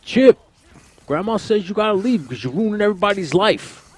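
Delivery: put-on high, loud whiny kid voice; movie quote impression. Quoting Napoleon Dynamite movie line.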